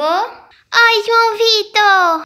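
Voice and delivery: loud, slow, stretched greeting of the name; excited greeting. Real, not acted. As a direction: greet your little brother happily. Irmãs chegando, saudação alegre. (saudação animada e arrastada)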